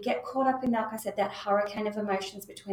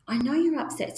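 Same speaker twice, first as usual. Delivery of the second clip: validating; 5 semitones higher than usual. Shown as a demonstration. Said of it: "letting them know".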